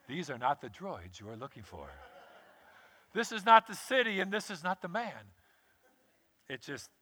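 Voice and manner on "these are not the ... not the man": Obi-Wan Kenobi Jedi mind trick. Retold or imitated. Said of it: "thinking of Obi-Wan Kenobi".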